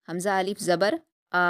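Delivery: حمزہ الف زبر آ with آ held for two counts; stretched madd. Shown as a demonstration. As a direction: hold the آ while counting on fingers. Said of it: "دو fingers کو بند کریے". (آ کو کھینچ کر پڑھیں)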